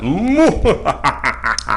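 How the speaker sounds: hammed-up evil cackle; unhinged villain laugh. Shown as a demonstration. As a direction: give a villain's laugh on cue. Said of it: "Evil laugh, right".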